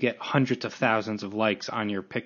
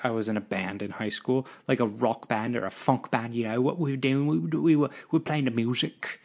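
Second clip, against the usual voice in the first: light put-on British accent; a half-hearted English accent. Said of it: "I'm never doing a British accent".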